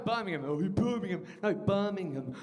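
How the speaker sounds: put-on a Birmingham accent slipping out in anger; angry Brummie accent. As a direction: let the Brummie come out. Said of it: "So I'm going".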